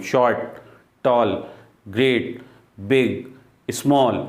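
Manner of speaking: शॉर्ट, टॉल, ग्रेट, बिग, स्मॉल each as one separate sound; one beat per word. Shown as a demonstration. Teacher showing single-syllable words, each said in one go. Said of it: "एक बार में पूरा word बोल देते हैं हम".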